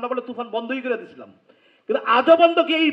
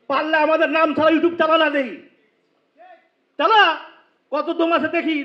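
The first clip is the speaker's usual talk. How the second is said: defiant challenge; 3 semitones higher, 5 dB louder than usual. Real, not acted. Challenging the YouTubers to try.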